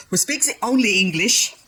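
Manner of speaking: ordinary talk, nothing marked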